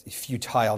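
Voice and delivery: futile said carefully, apart from feuding; futile, sounded out. Shown as a demonstration. Clarifying futile for the congregation, sounded out carefully. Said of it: "not feuding".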